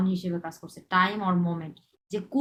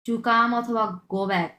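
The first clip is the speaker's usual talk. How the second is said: slow teaching; much slower than usual. Shown as a demonstration. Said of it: "teaching meaning slowly".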